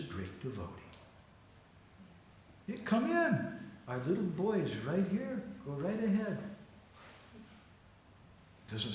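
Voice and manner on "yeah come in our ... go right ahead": high lilting invitation; airy, welcoming lilt; welcoming mother. Acted. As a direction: wave the guest in with a high, sing-song "come in". Voicing Yashoda welcoming a visitor.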